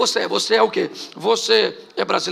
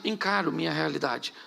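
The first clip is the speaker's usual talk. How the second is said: encaro minha realidade repeated lower and much softer; quiet echo; 4 semitones lower, 7 dB quieter than usual. Acted. Pastor echoing his own phrase, quieter. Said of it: "repeated phrase softer".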